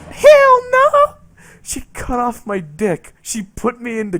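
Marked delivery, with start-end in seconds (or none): 0.1-1.1 much higher, louder outraged yell; furious shout. Retold or imitated. The angry wife refusing him, a loud high yell. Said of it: "She's like".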